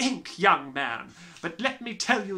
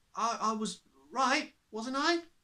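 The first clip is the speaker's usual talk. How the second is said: hushed, fearful, nervous mumble; 2 semitones higher, 7 dB quieter than usual. Narrating a story, Eric glances back at the Trunchbull: Eric murmuring nervously. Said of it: "He murmured nervously".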